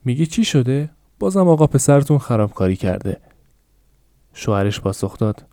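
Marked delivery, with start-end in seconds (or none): 0.0-3.2 high, raised complaint; mild shout. Acted. Wife shouts at her husband, high raised complaint. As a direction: snap back at the husband, raised. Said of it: "خانم تواش داد زد".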